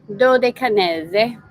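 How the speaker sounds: "Dodecanese" drawn out syllable by syllable, rising at the end; exaggerated mispronunciation. Shown as a demonstration. Host jokes about how to say the island group, exaggerated pronunciation of "Dodecanese". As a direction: stretch "Dodecanese" slowly into a playful wrong pronunciation. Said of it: "I know you don't say it like that".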